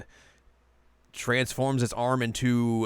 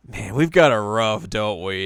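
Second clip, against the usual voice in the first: laughing; 7 dB louder than usual. Retold or imitated. Shippo voiced laughing.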